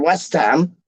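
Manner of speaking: "West Ham" run together, another wrong take; wrong pronunciation. Shown as a demonstration. Fan listing others' mistakes, run-together pronunciation. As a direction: join "West Ham" into one name. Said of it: "It's not West Ham".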